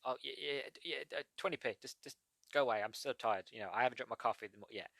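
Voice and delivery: mock-weary seller stumbling over words; halting, half-awake brush-off, lightly acted; tired stallholder. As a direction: play a seller not yet awake. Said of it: "get people while they're still tired".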